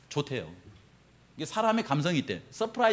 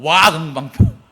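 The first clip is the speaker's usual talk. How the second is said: impressed; 2 semitones lower, 9 dB louder, slower than usual. Acted. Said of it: "나오더라고".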